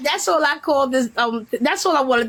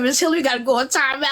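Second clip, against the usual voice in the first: laughing scold; 2 semitones higher, much faster than usual. Retold or imitated. Quoting herself while laughing.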